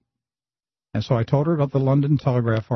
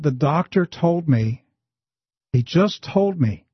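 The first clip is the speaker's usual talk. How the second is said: slow drugged voice; 4 semitones higher, slower than usual. Retold or imitated. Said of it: "in a very slow voice".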